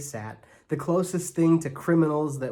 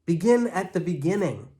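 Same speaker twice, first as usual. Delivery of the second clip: hollering; 4 semitones higher, 4 dB louder than usual. Acted. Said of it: "Imogen hollered at my mother".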